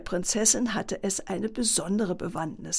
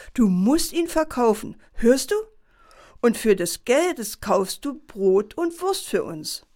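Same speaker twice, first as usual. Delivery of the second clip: insistent mother; 3 semitones higher, 3 dB louder than usual. Acted. Mother lectures her son.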